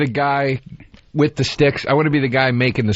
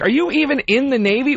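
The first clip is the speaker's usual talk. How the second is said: retort; 10 semitones higher than usual. Retold or imitated. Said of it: "And I'm like".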